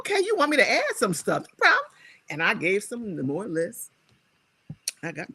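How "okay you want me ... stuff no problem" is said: eager agreement. Retold or imitated. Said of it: "I thought".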